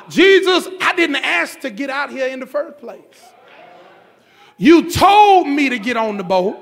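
lightly voiced frustrated disciple confronting Jesus; mock complaint to Jesus.

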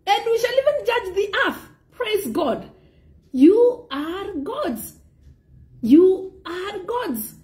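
high, ringing preacher's declaration; emphatic preaching. Real, not acted. Preacher telling believers they are gods with authority, emphatic preaching. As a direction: proclaim it from the pulpit, pitched high.

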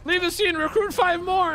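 high, loud police order; shouted command. Acted. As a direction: order them off loudly. Cop ordering people away.

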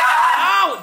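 high startled yelp; sharp ow. Real, not acted. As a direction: yelp in sudden pain. Bitten or bumped by the dog.

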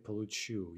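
"Получу" with the final у stressed; stress on the end. Shown as a demonstration. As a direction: land the stress on the last syllable of "Получу". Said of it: "the ya form is gonna have in stress".

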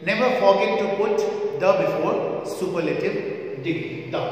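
slow stress on Never and the; emphatic reminder. Shown as a demonstration. Teacher stressing a rule to students, slowly. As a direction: drive home the rule about putting the before the superlative. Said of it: "point to be remembered".

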